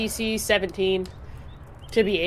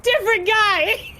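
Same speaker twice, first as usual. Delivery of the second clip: stoner dude voice; 12 semitones higher, 3 dB louder, slower than usual. Acted. Dude voice insisting.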